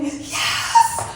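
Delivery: a breathy whispered cheer; whispered yes. Retold or imitated. To herself over a rat on her truck, hushed whisper. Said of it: "I'm like".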